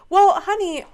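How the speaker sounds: a knowing, sassy turn on the critics; sassy honey. Real, not acted.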